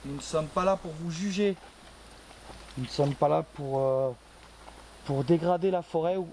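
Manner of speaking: projected address to unseen listeners; calling out to spirits. Real, not acted. Investigator tells forest spirits they mean no harm, calling out.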